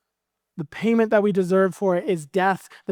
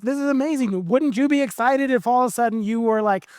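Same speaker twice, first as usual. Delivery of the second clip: higher, lively joy; excited relief; 4 semitones higher than usual. Acted. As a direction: burst out with freed excitement. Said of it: "he's like".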